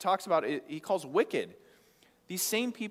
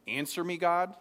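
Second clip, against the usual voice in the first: demanding tone. Shown as a demonstration. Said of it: "like, in that tone".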